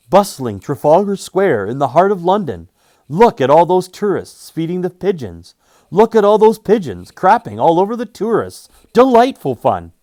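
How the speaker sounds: loud, high newsreel announcer; booming vintage newsreel narration; old newsreel voice. A narrator's reading. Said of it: "sounding like a voiceover from these old newsreels".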